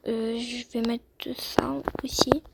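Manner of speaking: slow whispered aside to herself; soft unvoiced murmur, slowed down. Real, not acted. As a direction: breathe it out while choosing the outfit. Muttering to herself while choosing.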